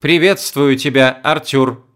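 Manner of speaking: lightly voiced machine translator; old speech synthesizer. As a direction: stiff synthesized greeting. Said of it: "ответила синтезированным голосом".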